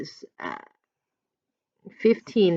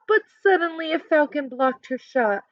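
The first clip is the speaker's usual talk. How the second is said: ordinary delivery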